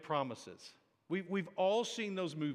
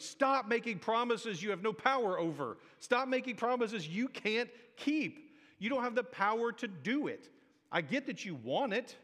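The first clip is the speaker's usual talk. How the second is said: raised, higher mock yell at a movie hero; yelling at the screen; 6 semitones higher than usual. Pastor yelling at a movie character to stop promising. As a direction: scold the screen, pitched up. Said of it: "yelling at the screen".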